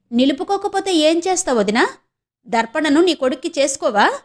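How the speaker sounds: high, mocking challenge; taunting. Taunting sister-in-law in quarrel.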